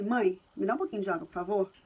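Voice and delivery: put-on the corrected sentence said softly and calmly, as an example for the child; model sentence, softly. Shown as a demonstration. Mother modeling the right Portuguese sentence for her child, softly and calmly. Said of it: "Você tem que falar assim".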